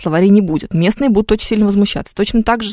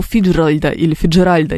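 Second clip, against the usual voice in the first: "Фиджеральда" stressed first on ФИ, then on РАЛЬ; rejected stresses; 2 semitones lower than usual. Shown as a demonstration. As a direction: contrast two wrong stresses on "Фиджеральда". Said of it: "ударение на букву".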